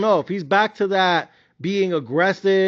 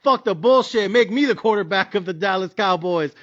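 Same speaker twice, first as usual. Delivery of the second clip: mock bragging, lightly voiced; imagined Tom Brady rant; 3 semitones higher than usual. Tom Brady secretly wanting Dak's job, mild mock bragging. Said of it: "what you really wanna say is".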